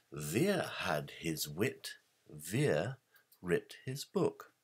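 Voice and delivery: "Ver" said slowly with a clear V sound; slow it down and lean on "Ver" with a firm V. Shown as a demonstration. Lecturer revealing the hidden name to his audience, slow and deliberate. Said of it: "the name Ver was spelt V E R".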